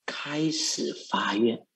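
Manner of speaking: slow, breathy whisper. Real, not acted. Monk whispering to followers as the vow begins. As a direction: whisper it like a sacred secret.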